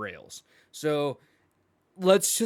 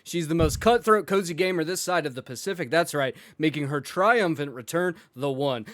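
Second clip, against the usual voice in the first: hype intro. Acted. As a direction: introduce her like a ring announcer. Host announces a returning guest.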